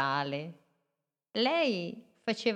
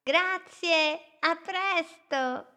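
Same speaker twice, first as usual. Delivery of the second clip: much higher, louder farewell; cheerful goodbye; 11 semitones higher, 4 dB louder, slower than usual. Acted. Little boat calls goodbye to Amalia, high and bright. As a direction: call out happily while leaving.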